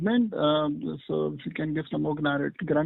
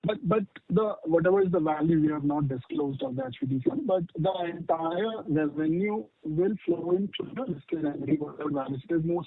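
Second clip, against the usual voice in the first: muffled, like a hand over the mouth. Real, not acted. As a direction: speak through a covered phone mic. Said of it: "you're sounding muffled".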